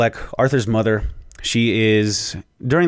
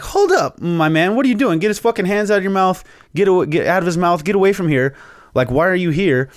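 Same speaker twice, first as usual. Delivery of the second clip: much higher, louder protective shouting; alarmed Alfred; 10 semitones higher, 5 dB louder than usual. Retold or imitated. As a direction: shoo the stranger away in a panic. Alfred rushes to the gate.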